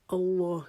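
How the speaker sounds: اللہ with the lam held exactly one alif; one alif length on Allah. Shown as a demonstration. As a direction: stretch the a of اللہ one count, evenly. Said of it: "ساتھ ایک الف پڑھیں". (اللہ کو ایک الف کے برابر کھینچ کر)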